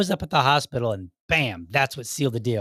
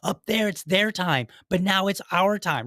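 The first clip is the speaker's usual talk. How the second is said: put-on Goonies kid rallying; 5 semitones higher, slower than usual. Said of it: "the one kid is like".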